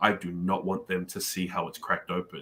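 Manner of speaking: low, hushed half-whisper under the breath. Recapping an episode, retelling what a team member half-whispered; imitating a half-whisper. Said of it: "Angel is whispering like".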